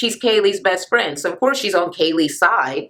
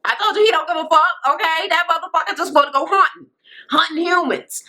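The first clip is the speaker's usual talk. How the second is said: laughing; 9 semitones higher than usual. Real, not acted. Laughing about the boyfriend.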